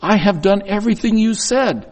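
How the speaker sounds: mock the smug older son; smug brother, lightly voiced; self-righteous. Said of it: "he gets very self-righteous".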